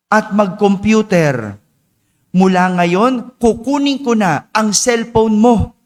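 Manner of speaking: a mildly acted scolding father, each word deliberate; stern angry father. Father scolding his failing child, slow and stern.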